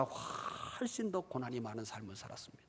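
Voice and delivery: breathy, unvoiced hush to the congregation; whisper. Real, not acted. Preacher whispering to the congregation about hardship. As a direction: drop to a whisper as if sharing a secret.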